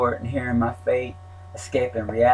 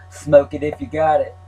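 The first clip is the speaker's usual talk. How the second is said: higher, louder call through a wall; yelled through the wall; 5 semitones higher, 5 dB louder than usual. Retold or imitated. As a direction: shout it to the next cell. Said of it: "Whoever it was yelled out".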